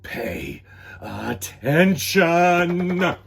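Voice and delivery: loud, slow scolding; stern teacher. A narrator's reading. Teacher telling David off for gum, slow and stern. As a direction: spell out each word like a strict teacher.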